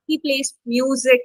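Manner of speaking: weight placed on MUSIC; stress on MUSIC. Shown as a demonstration. Teacher giving a noun example, stress on MUSIC. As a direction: make the noun MUSIC stand out. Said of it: "you stress on nouns".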